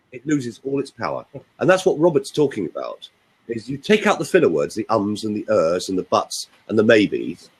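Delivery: ordinary talk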